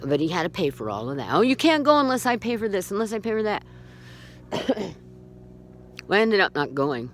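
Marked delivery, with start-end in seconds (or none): 1.3-3.6 higher-pitched mock objection; mock whine of protest; mocking mimicry. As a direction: parrot a controlling partner's complaint. Mimics his objection about paying.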